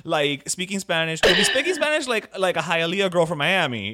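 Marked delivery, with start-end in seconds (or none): 1.2-3.9 excited promise. Real, not acted.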